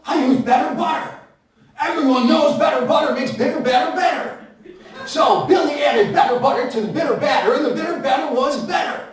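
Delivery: gleeful twister. Shown as a demonstration. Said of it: "tongue-twister shouted with laughs".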